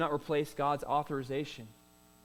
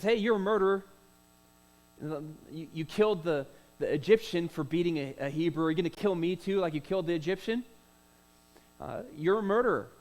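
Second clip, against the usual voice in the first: accusing. Acted. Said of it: "He says".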